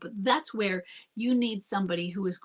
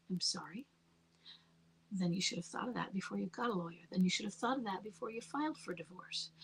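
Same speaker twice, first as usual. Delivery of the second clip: softer, calm, even retort, half whispered; calm manner; 5 dB quieter than usual. Retold or imitated. Retelling her reply to the angry husband, softer and calm. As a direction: stay cool and quiet, never raise the voice. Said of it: "I talked in that kind of calm manner".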